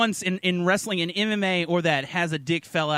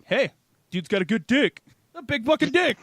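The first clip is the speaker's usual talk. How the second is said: impressed onlooker; 5 semitones higher than usual. Retold or imitated. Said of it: "the dude's like".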